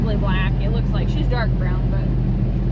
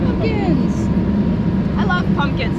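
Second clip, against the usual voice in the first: excited; 5 semitones higher, 3 dB louder than usual. Real, not acted. Excited seeing pumpkins.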